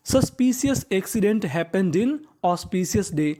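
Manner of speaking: very slow, each English word spaced out; slow sentence reading. Shown as a demonstration. Teacher dictating the example sentence to pupils, very slow. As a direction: read it slowly so students can follow.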